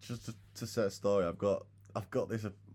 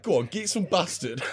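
coworker's catchphrase; 10 semitones higher, 8 dB louder than usual. Retold or imitated. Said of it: "He was like".

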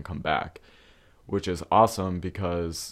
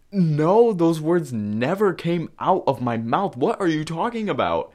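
much higher and louder, near a shriek; outraged denial; 9 semitones higher, 5 dB louder than usual. Retold or imitated. Denying the rumor to the friend, high outraged protest. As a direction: protest like you can't believe your ears.

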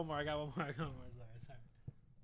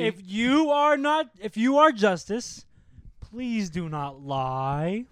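mock dramatic plea; 2 semitones higher, 6 dB louder, much slower than usual. Mock plea with dramatic slow delivery.

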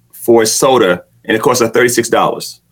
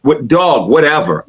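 laid-back whatever; 2 semitones higher than usual. Retold or imitated. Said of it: "I'm like this".

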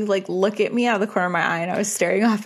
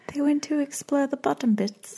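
put-on higher-pitched, poor Scottish accent; attempted Scottish accent; 6 semitones higher than usual. Co-host echoing the ghost hunters, botched Scottish accent. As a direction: have a go at Scottish, not convincingly. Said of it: "That wasn't a Scottish accent".

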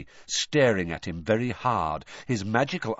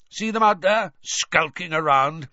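higher, louder, pointing out the lurkers; sharp and eager, louder; pointing them out; 7 semitones higher, 6 dB louder than usual. A narrator's reading. Moody shows Harry the lurkers, eager and loud.

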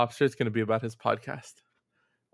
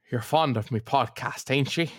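Pattinson impression. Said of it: "I do Pattinson's, like, voice and inflection from that movie".

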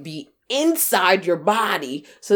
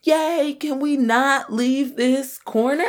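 fake cheer, slowing; 7 semitones higher, slower than usual. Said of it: "And then I'm like".

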